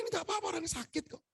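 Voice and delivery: high, soft voice; gentle high-pitched excusing; retold reassurance. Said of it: "Saya bilang".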